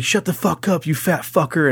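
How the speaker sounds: a hammed-up schoolyard tough, voice pushed up; imitating the bully.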